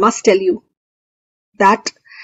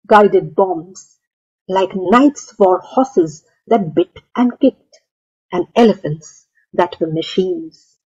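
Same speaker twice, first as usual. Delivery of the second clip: measured poem recital with pauses between phrases; poetry reading. Acted. Poet reads own poem to festival audience, poetry reading. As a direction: recite line by line, letting images land.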